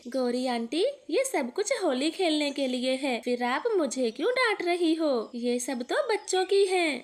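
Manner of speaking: put-on a light child's voice, eager; little boy Kuku. Little son tells his mother about the tent, eager child voice. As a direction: play the excited little son.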